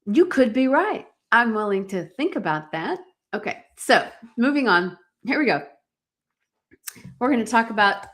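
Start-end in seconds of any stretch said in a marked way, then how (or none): 0.0-3.0 demonstrated non-defensive reply. Shown as a demonstration. Coach models answering "you always, you never", lightly non-defensive. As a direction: offer it lightly, without arguing back. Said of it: "I want you to hear my voice".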